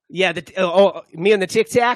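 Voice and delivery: lightly put-on New York accent on "Tic Tac"; a hint of New York twang, playful. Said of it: "whatever accent I'm doing right now".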